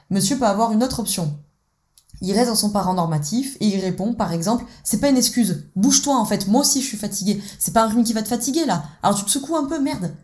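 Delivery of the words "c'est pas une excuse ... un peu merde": harsh persecutor. Acted. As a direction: brush off her excuse harshly. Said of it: "parent normatif et dans la posture du bourreau".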